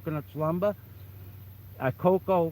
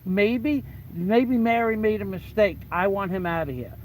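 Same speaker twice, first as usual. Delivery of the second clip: higher, louder retold argument; indignant protest; 4 semitones higher, 4 dB louder than usual. Bouncer objecting to boss about ejecting a drinker, indignant protest. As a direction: argue back in exasperation, pitch raised. Arguing with boss over customer.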